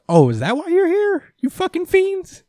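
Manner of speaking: very high, strained mock outrage; mock freak-out. Podcaster acting out Cole turning on visitors, mock freak-out. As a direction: squeal it indignantly, hammed-up. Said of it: "'cause Cole's freaking out".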